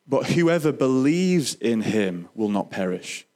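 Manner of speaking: the verse broken down slowly, word by word; slow right down so every word of the verse lands; slow and deliberate. Shown as a demonstration. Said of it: "I'm just gonna break it down in small sections".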